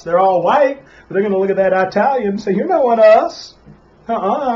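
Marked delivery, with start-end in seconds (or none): 2.5-4.5 mock rejecting locals. Voicing Europeans rejecting the Italian.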